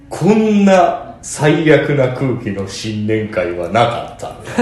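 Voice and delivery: slow, drawn-out mock-angry complaint; retold anger. Retelling a senior's complaint about the party, mildly angry, very slow. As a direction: quote an angry senior, words dragged out. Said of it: "安田さんがすごい怒ってたらしい".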